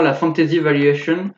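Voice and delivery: a slow, hammed-up English accent on the name; mock English accent. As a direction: put on a jokey English accent for the opening name. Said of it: "avec mon bel accent anglais". (accent anglais exagéré pour rire)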